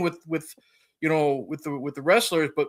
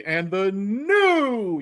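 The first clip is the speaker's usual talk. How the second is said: "new" stretched long and pitched up; stress on NEW; 4 semitones higher, much slower than usual. Retold or imitated. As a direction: draw out NEW like a title announcement. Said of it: "the emphasis on the word new".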